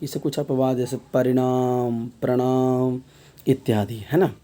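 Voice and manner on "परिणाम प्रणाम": long drawn final -णाम in परिणाम, प्रणाम; word-final sound demonstrated. Shown as a demonstration. Teacher giving examples of word endings, final syllables drawn out. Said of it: "शब्द के अंत में आता है".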